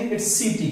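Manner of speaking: "सिटी" with an s sound, सिटी; soft s to open "सिटी"; correct city. Shown as a demonstration. Teacher to class, modelling the s in "सिटी". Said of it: "कीटी नहीं बोलेंगे".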